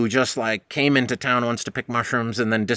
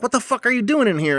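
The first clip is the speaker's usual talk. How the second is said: stern; 10 semitones higher than usual. Retold or imitated. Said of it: "very sternly".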